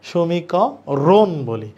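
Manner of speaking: সমীকরণ drawn out very slowly; slow careful answer. Shown as a demonstration. Teacher giving the answer, very slow and clear. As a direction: spell out সমীকরণ syllable by syllable. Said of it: "শেষে কি আমরা সমীকরণ বলি".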